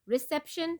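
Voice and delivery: "Reception" stressed on CEP; careful teacher's "Reception", weight on CEP; second-syllable stress. Shown as a demonstration. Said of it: "second syllable".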